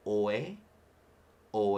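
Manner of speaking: "oe" with a hard glottal attack at the start; emphasis on beginning. Shown as a demonstration. Teacher shows the okina at the start of "oe". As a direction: start "oe" with a sharp catch. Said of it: "putting that extra emphasis on the beginning".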